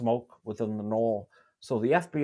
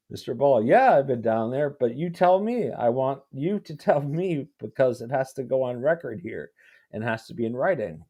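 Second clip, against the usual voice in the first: insistent lawyer; 2 semitones higher, 6 dB louder than usual. Retold or imitated. Reads the lawyer's pushy question aloud.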